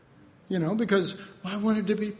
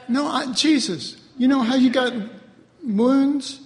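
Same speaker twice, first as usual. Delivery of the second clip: mock complaint; 3 semitones higher, 3 dB louder than usual. Mock whining to Jesus.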